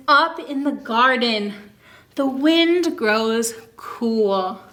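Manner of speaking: slow, lilting picture-book reading; reading to children. Acted. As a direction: read it aloud to a class of little kids. Reads picture book to kids.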